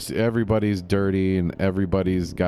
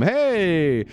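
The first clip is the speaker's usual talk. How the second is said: jokey smuggler voice; 8 semitones higher than usual. Retold or imitated. Voicing smugglers offering opium deal.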